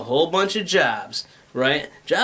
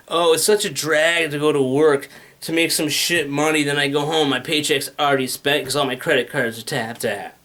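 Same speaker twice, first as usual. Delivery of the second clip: lower, mildly dejected grumble; acted drag of a gripe; weary complaint; 5 semitones lower than usual. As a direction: voice a worker fed up with the grind. Voices a worn-out worker's complaint.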